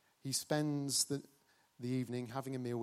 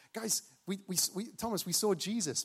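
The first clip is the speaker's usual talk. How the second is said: excited news; 6 semitones higher than usual. Acted. Disciples excitedly tell Thomas.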